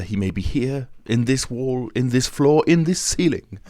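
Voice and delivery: building warning. A narrator's reading. The Persian warning Raoul that Eric may hide anywhere, building from tense to loud.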